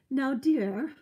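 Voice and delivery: attempted British accent. Oncologist addressing her patient, attempted British accent. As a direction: put on a British accent, badly. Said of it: "I can't do a British ac".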